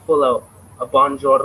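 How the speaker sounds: loud, mock-heavy French accent; full-out French accent. Shown as a demonstration. Streamer showing viewers what a real accent is, full-out French accent. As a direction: put on an exaggerated French accent. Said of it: "what a fucking accent is".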